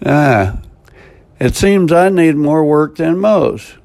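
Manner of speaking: ordinary talk, nothing marked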